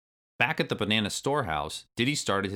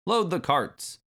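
shout; 10 semitones higher, 4 dB louder, slower than usual. A narrator's reading. Clump shouting orders.

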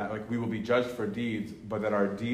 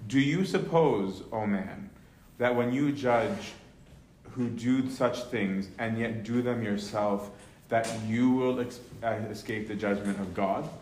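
scripture reading. Acted. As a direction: read the verses as weighty scripture. Reading Romans 2 aloud.

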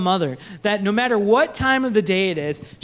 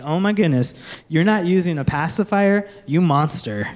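lower, scandalized mock gasp; mock outrage; 5 semitones lower than usual. Onlookers scolding parents over pacifiers, mock-scandalized. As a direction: act shocked at the choice. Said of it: "people are like".

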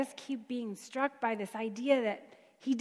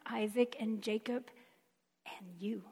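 intimate whisper; 6 dB quieter than usual. Acted. God speaking to Moses, intimate.

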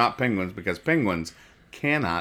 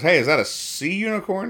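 much higher, goofy Viking question; mock Hagar voice; 11 semitones higher than usual. Retelling the comic, voicing Hagar with a high goofy question. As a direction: squeak it out like a clueless Viking. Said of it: "Hagar goes".

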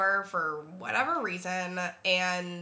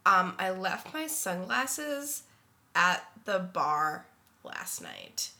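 sick, congested voice; stuffy nose. Real, not acted. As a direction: talk through a stuffy nose. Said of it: "if I sound different, it's because I'm sick".

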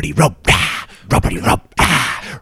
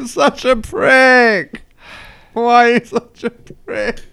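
put-on drunken crying.

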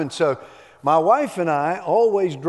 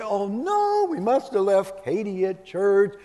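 high, hammed-up gasp of alarm; mock surprise; 5 semitones higher, slower than usual. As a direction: play at being shocked for the child's sake. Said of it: "she would mock surprise and say".

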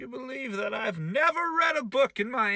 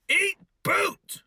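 higher, louder comic yell; mock angry shout; 11 semitones higher, 7 dB louder than usual. Host yelling at his heckling sidekick Iris, mock fury. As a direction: fire it off as you throw the boot.

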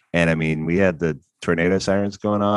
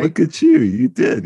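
mock praise; 7 dB louder than usual. Teasing praise for remembering.

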